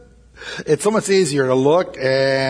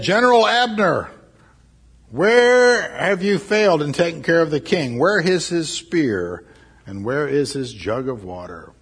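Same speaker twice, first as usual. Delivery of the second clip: loud calling out across the valley; yelled; 5 semitones higher, 5 dB louder than usual. Acted. David yelling across the valley to wake Abner. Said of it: "David yelled and woke him up".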